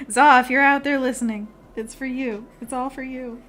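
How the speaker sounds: lightly put-on British accent; mock-British dedication to the teacher; bad British accent. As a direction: keep up the fake British accent. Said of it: "British accent".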